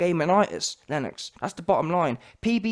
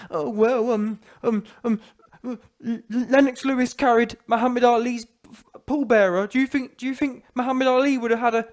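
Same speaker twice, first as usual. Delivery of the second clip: higher, stammering mimicry; mocking a pundit; 4 semitones higher than usual. Imitating a pundit making Lennox's case, mocking. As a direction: fumble the words in mock imitation of him. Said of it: "This guy's gassed. He's talking about".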